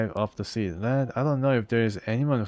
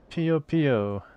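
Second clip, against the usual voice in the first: higher, cute Pokémon-like chirp; creature chirp; 6 semitones higher, 3 dB louder than usual. Pretend. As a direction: chirp it like a little pet creature. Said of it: "So Pika Pika, but Lim Lim version".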